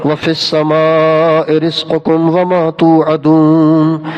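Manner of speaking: slow, measured chanted recitation; Quran recitation. Acted. Preacher reciting a verse to the congregation, slow chant. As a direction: recite the verse slowly and solemnly.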